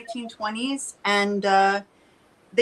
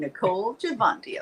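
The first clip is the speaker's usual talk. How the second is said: dramatic mock announcer impression; William Shatner. Imitating the promo guy for friends, mock Shatner delivery. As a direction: put stagey weight on each name. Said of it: "with a Shatner voice".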